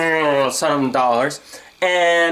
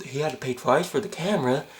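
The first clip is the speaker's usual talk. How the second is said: clueless staff; 4 semitones lower, 7 dB quieter than usual. Acted. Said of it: "that thought isn't going through their head".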